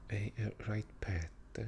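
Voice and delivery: tentative Geordie accent. Shown as a demonstration. Vlogger attempting a Geordie greeting, shaky Geordie accent. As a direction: have a rough go at Geordie. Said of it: "it's like Geordie".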